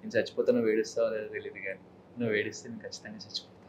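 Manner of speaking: hushed romantic hero line. Acted. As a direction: murmur it to your beloved. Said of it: "romantic గా".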